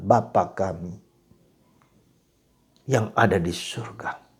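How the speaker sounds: slow, unhurried, deliberate, each phrase given weight. Showing how to pray the Lord's Prayer slowly. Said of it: "Tetapi dengan pelan-pelan".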